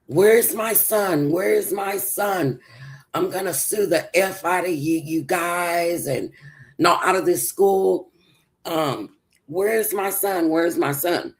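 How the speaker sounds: high, slow, desperate mother's cry; frantic mother. Retold or imitated. Frantic mother retold at school.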